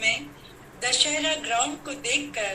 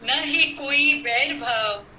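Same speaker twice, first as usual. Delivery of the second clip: measured, declaimed verse with pauses between phrases; poem recital; 2 semitones lower than usual. Acted. Poet to fellow poets on Vijayadashami, declaimed festival verse. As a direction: recite it line by line to a poetry gathering.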